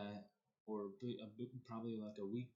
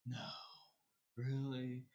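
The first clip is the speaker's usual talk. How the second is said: obvious sarcasm; 2 semitones higher, slower than usual. Shown as a demonstration. Demonstrating the sarcasm the speaker didn't use, mock sarcastic. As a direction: mimic an openly sarcastic reply. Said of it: "I didn't do that".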